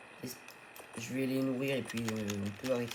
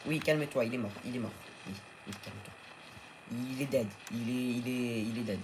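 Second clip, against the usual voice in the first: soothing pet; 2 semitones lower than usual. Real, not acted. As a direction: talk the dino down gently. Soothing pet dino again.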